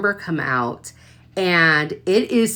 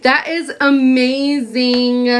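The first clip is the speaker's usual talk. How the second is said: awed delight; 4 semitones higher, 4 dB louder, slower than usual. Real, not acted. Admiring details.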